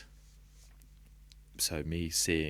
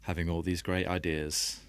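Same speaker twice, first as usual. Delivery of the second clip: poem reading. Acted. Reading an old poem aloud to podcast hosts, measured and deliberate. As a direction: let each line land with a pause. Reads his own poem.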